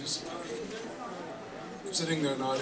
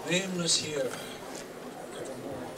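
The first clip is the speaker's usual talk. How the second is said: measured, theatrical verse with long pauses; dramatic poem recitation. Acted. Reciting The Raven as its grieving narrator, dramatic poem recitation. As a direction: recite gothic verse, swelling and sinking with the story.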